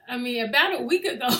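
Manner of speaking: giggling through the line; can't get it out for laughing; flubbed take, laughing; laughing retake. Real, not acted. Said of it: "focus".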